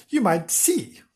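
hint at it a touch strangely; rather strangely. Acted.

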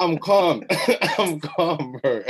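laughing, insisting he's calm. Real, not acted. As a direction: laugh through claiming calm. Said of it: "I'm actually calm".

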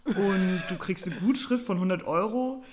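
slow, hesitant caller full of ums; hesitant scam caller. Retold or imitated. Retelling the Vodafone scam caller, slow and hesitant. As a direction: stumble through the pitch like a shaky scammer. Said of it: "die war eher so".

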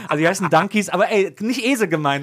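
high, laughing explanation. Real, not acted. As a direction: giggle through the words.

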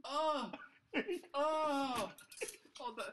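disgusted by smell. Real, not acted. Reacting to awful smell.

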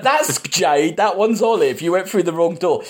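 amused, laughing correction about the wrong door. Retold or imitated. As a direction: chuckle at the mistake as you explain. The speaker mocking the mix-up.

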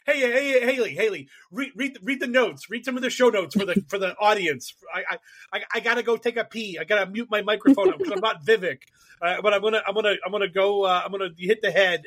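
hammed-up urgent hand-off; mock bossy host. Acting out ordering co-host to read.

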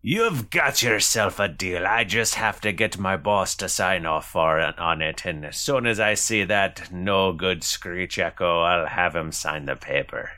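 quest giver in a lightly put-on accent; Granona. Quest giver agrees to the players' price, lightly accented character voice. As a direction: close the deal in character.

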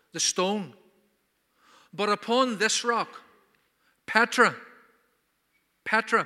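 a preacher voicing Jesus with added emphasis; emphatic Jesus. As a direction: hammer home who Peter is. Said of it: "if you would forgive me for adding a bit of emphasis".

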